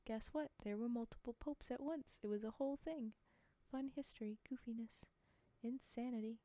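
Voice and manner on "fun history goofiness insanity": breathy conspiratorial whisper; whispered aside. Real, not acted. Streamer whispers a history joke to chat, hushed. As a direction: let it slip out under the breath.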